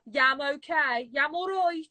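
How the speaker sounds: drawn-out Brummie yam; Birmingham dialect. Shown as a demonstration. Showing a friend how Birmingham says yam, Brummie accent. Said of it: "We say the word yam".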